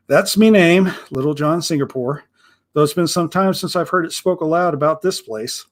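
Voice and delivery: a hint of a gruff old pirate, proud of his name; lightly voiced pirate.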